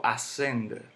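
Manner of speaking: "ascender" stressed on CEN; misplaced stress. Shown as a demonstration. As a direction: lean on the middle syllable of "ascender", as a wrong example. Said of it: "Yo no digo".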